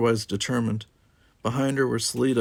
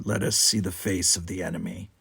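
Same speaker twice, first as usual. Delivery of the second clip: sneer; 3 semitones lower than usual. Acted. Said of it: "sneered Gower".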